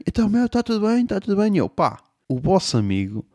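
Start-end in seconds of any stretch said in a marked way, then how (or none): 0.1-1.5 high, challenging mock voice; friends' tough voice. Friends confront the comedian at the party, high mock. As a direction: play the pushy friends, pitched up. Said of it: "os gajos vêm".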